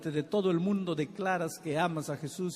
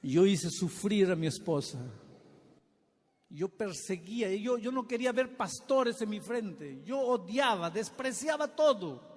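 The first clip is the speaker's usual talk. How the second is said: emotional confession; 3 semitones higher than usual. Retold or imitated. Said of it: "con ojos emocionados me decía".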